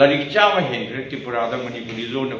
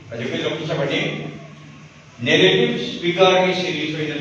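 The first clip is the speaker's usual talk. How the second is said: measured verse with pauses between phrases; poetry reading for an audience; poem recitation. Acted. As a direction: recite it line by line, lightly lilting.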